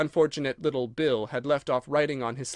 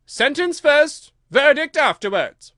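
high, loud, drawn-out decree; slow, forceful royal order; imperious shout; 11 semitones higher, 11 dB louder, slower than usual. A narrator's reading. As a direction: lay down the law as a shouting queen. Queen overrules the king.

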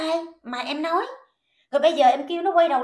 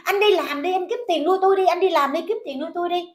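higher, louder nagging wife; mocking her demand; 4 semitones higher, 3 dB louder, faster than usual. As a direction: mimic her whining for money. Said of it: "cái miệng của em cũng nói đó là". (giọng nhại vợ đòi tiền)

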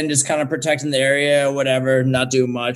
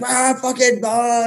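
mock cop grunt; 9 semitones higher than usual. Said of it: "they just come up and be like".

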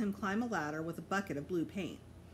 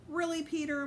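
scolding mom; 9 semitones higher than usual. A narrator's reading.

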